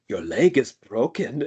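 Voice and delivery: imitating a Swedish doctor; deadpan Swedish doctor accent. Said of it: "one part that he did the impression".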